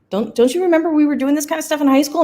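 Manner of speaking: exasperated quote. Retold or imitated. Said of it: "I'm like".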